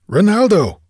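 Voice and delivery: high, urgent cry; strident, desperate urgency. A narrator's reading. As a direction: call out desperately to stop an attacker. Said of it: "His voice was strident with desperate urgency".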